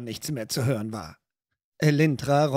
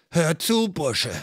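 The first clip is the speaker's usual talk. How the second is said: suppressed anger; slower than usual. Acted. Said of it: "brummte er mit mühsam unterdrücktem Zorn".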